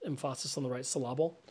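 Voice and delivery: "emphasis" and "syllable" stressed on the second syllable; low, soft joking aside with "emphasis" as em-FA-sis, "syllable" as syl-LA-ble; misplaced stress. Shown as a demonstration.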